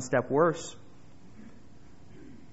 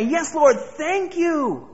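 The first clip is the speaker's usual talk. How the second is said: high, fervent mock gratitude; mock relieved sinner; 10 semitones higher, 6 dB louder, much slower than usual. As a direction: imitate a sweating sinner gasping thanks to God. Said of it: "wipe the sweat off our brows and say".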